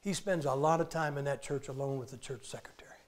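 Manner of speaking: hushed, unvoiced insinuating whisper; sly whispered gossip; gossipy whisper. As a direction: whisper the rumour like a secret. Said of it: "he finally says this".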